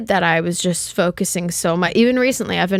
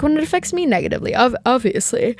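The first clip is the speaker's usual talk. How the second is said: talking through a yawn; words stretched by a yawn; 3 semitones higher, faster than usual. Real, not acted. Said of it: "Sorry, excuse me for yawning".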